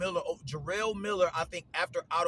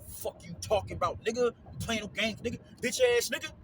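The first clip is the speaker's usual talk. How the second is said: hyped-up fight talk; 6 semitones higher, 3 dB louder than usual. Retold or imitated. Acting out a man about to fight.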